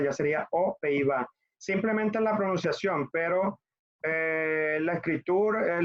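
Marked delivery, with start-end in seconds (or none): 0.5-1.3 "O, Pays-Bas" without a z; no liaison. Shown as a demonstration. Teacher contrasts consonant-initial word, pronounced without liaison. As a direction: leave "O" as a clean vowel before "Pays-Bas". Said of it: "aquí no puedo hacerlo".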